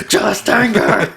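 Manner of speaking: high, loud laughing shout. Real, not acted. Joking back at the reader, laughing. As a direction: laugh it out slowly.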